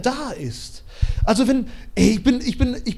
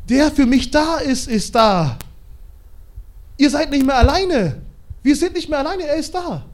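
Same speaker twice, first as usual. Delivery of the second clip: louder, higher rallying call; fervent proclamation; 4 semitones higher, 3 dB louder than usual. Retold or imitated. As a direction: lift the people up. Mose verkündet dem Volk. (Mose ruft begeistert dem Volk zu)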